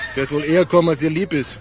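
tinny voice through a phone line. Acted. Anruf über Telefonzelle. (Stimme durchs Telefon)

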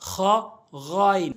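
"খ" and "গইন" scraped at the top of the throat; throat-fricative "খ", then voiced "গইন"; খ, গইন demonstration. Shown as a demonstration. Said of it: "এভাবে আমরা উচ্চারণ করব". ("খ", "গইন", হলকের শেষ থেকে)

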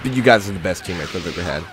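dry mock compliment; sarcastic praise. Gamer sarcastically thanking teammates who broke the chain. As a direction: praise them with a sneer. Mocking his useless teammates.

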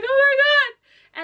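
hammed-up swoon; mock awe. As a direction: draw it out high in disbelief. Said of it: "he was just like".

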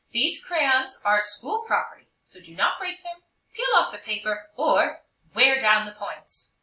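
stern teacher. Acted. Strict teacher warning.

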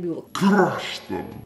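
slow, drawn-out mock strain; stretched out with pretend exertion; mock crushing effort. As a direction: put playful muscle into the words. Acts out crushing the chips.

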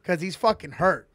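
angry trooper. Retold or imitated. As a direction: scold him like a mad trooper. Trooper demanding address.

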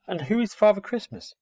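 put-on high-pitched young owl voice; curious owlet. Owlet hearing of Father Christmas from the girl, curious. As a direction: ask in wide-eyed puzzlement.

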